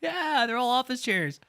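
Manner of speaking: chuckling through the words; laughing. Real, not acted. Streamer to chat about lobby chairs, laughing. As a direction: laugh while pointing it out.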